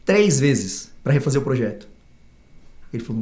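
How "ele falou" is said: ordinary delivery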